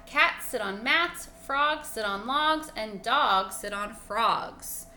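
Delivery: slow, loud sing-song rules; cat reciting rules. Acted. Cat reminding the frog of the rules, slow sing-song. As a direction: chant the rules like a prim cat.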